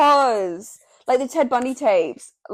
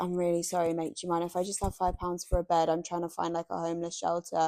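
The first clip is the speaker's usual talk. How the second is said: mock apologetic homeless man; 4 semitones lower, 11 dB quieter, faster than usual. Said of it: "he was like".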